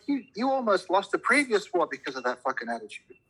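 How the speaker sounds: high, indignant scolding; heated rant. Real, not acted. Ranting at British policy.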